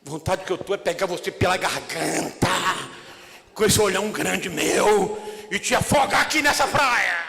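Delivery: hammed-up anger at Peter; mock threat. Preacher joking about throttling Peter, rising mock anger. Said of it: "preacher's mock threat".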